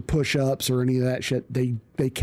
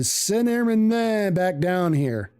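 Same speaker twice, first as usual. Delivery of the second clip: intercom call; 4 semitones higher than usual. Retold or imitated. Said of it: "The intercom goes off".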